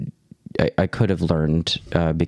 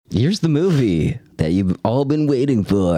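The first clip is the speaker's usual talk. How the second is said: radio announcer voice; 4 semitones higher than usual. Acted. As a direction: boom it out like a radio host. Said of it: "What is this voice you keep doing?".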